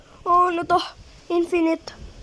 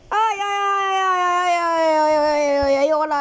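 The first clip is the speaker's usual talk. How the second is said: panicked yelping; 3 semitones higher, 3 dB louder than usual. Real, not acted. Fleeing monster.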